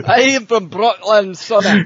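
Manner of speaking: high hammed-up Scots accent; squeaky Scot swearing he's Brooklyn; mock Scotsman. Laughing with friends, high hammed-up Scots accent. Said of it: "Scotsman saying he's from Brooklyn".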